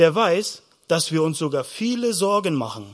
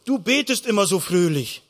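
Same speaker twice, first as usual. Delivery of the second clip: mild amazement; 2 semitones higher than usual. Acted. Preacher voices disciples questioning Jesus about prayer, mildly amazed. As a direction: marvel gently at how different it is. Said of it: "Die Jünger haben mal gestaunt".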